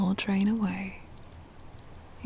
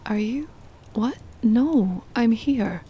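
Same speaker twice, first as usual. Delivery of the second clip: startled vampire; 3 semitones higher, 5 dB louder than usual. Acted. Vampire startled when her pet stirs from the trance. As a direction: jolt out of the trance voice, worried. Spell fails, listener panics.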